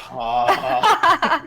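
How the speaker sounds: loud, high groan breaking into laughter; exasperated groan. Real, not acted. Player groans at the sandwich talk returning, exasperated.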